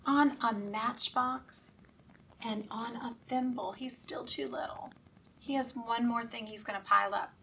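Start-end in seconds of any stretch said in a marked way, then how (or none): 3.7-4.9 whispered refrain; soft and voiceless. Acted. Reader whispering the refrain to the kids.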